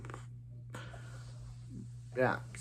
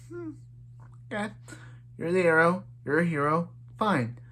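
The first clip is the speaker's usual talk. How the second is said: higher, shrugging okay, you're the hero; mock indifferent; 5 semitones higher than usual. Thea shrugging off Oliver's secret, mock indifferent. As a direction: toss it off like it's no big deal.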